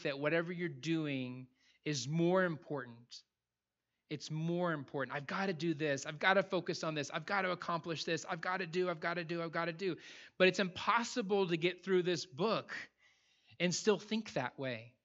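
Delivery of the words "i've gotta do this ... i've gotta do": mock busyness. Voices people wrapped up in busyness.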